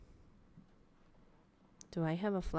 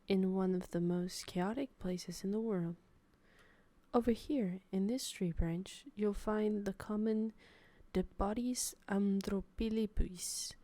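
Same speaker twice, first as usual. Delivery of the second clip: nature documentary narrator. Pretend. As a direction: narrate like a wildlife film. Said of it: "National Geographic documentary".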